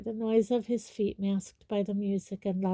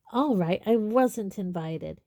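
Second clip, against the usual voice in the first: angry; 4 dB louder than usual. Acted. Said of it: "he said angrily".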